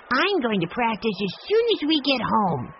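put-on a boy promising to practice; eager little boy. A narrator's reading. Benny tells Grandfather eagerly he'll practice at home.

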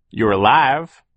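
high, loud, triumphant; Phil. A narrator's reading. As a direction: announce it like good news. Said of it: "Phil said finally".

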